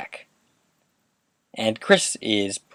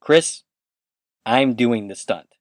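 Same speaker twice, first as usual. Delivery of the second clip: mildly firm retold reply, slow and deliberate; name first, then a slow, measured refusal; slower than usual. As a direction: put your foot down, lightly acted. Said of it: "rather firmly, says".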